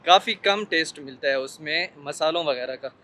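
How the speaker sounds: muffled behind surgical mask; speaking with mouth covered; through a face mask. Real, not acted. Seen 4: Selfie speaker wears surgical mask over mouth throughout all frames.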